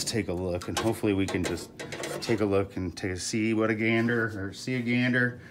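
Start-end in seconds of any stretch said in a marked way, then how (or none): 2.2-5.4 breathless, stumbling over words; tongue-tied from panting; out of breath. Real, not acted. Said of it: "I can't even talk 'cause I'm so out of breath".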